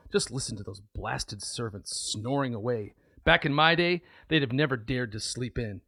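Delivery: put-on crotchety old man. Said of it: "he's the crotchety old man".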